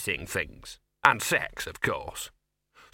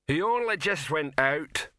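bellowing; 5 semitones higher than usual. Acted. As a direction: bellow it over the singing. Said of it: "bellowed Rock".

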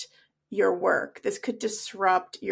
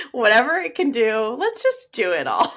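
laughing; 3 semitones higher, 4 dB louder than usual. Real, not acted. Joking, laughing at the image.

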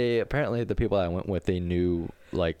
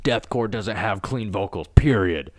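mock pronouncement; 2 semitones higher, 4 dB louder, slower than usual. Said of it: "this guy commented".

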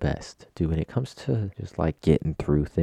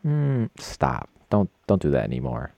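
higher, teasing stop-it voice; mock annoyed plea; 7 semitones higher, 3 dB louder than usual. Friend texting to stop the podcast, mock pleading. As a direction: pretend to beg them to quit. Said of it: "somebody to text me and be like".

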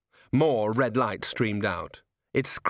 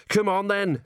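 higher, loud and impatient; impatient gnome call; 9 semitones higher, 3 dB louder than usual. A narrator's reading. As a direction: chivvy him up the wall. Gnome urges Colon up.

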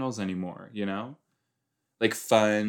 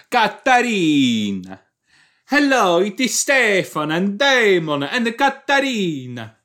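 mock-posh British hostess introducing herself; British accent; 9 semitones higher, 6 dB louder than usual. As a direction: greet the room in a grand British accent. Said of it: "So she's just, what, British?".

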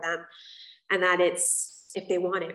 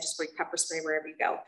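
laughing; 2 semitones lower, 4 dB quieter than usual. Retold or imitated. Quoting mom, laughing.

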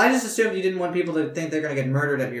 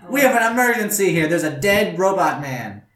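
huge voice. Acted. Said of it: "Because of my huge voice".

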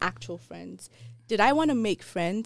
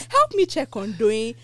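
put-on Nigerian accent; 3 semitones higher, 5 dB louder than usual. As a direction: repeat it, stronger Nigerian accent. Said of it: "my African accent just went".

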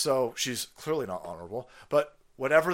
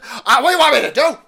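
high, loud, whiny mock official; 11 semitones higher, 14 dB louder, faster than usual. Mocking the deputy secretary's excuse, high whiny voice. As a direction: whine it like a cornered bureaucrat.

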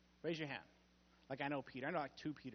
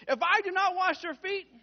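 1 Jesus answering; 12 semitones higher, 7 dB louder than usual. Acted. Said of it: "Jesus answers him".

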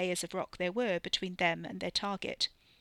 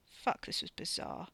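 softer, whispered disbelief; hushed aside; 5 dB quieter than usual. A narrator's reading. A man in a strange wilderness thinking to himself, whispered. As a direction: say it under the breath. Character's bewildered inward thought.

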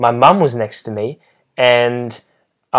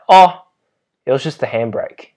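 sheepish realization. Retold or imitated. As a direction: act out the sudden discovery. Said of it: "he's like".

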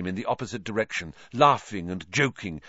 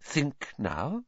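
hushed urging; 5 semitones higher, 6 dB quieter than usual. Acted. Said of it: "whispered Professor Trelawney".

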